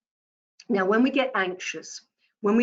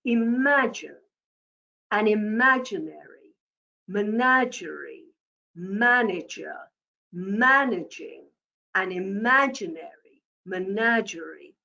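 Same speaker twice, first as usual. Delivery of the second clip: measured exercise pace. Shown as a demonstration. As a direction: say each phrase separately, pausing at every comma. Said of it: "get you into the pace".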